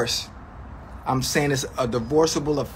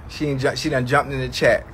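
ordinary talk

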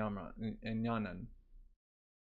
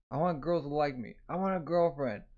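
whiny plea; 2 semitones higher, 3 dB louder than usual. Acted. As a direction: whine it like a lovesick boy. Alibaba whining for love.

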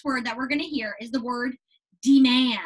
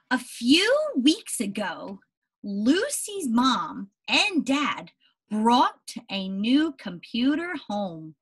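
put-on slow storybook reading to children; unhurried read-aloud for young listeners; story narration; much slower than usual. A narrator's reading. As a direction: read it slowly, like to a class. Reads story aloud to class.

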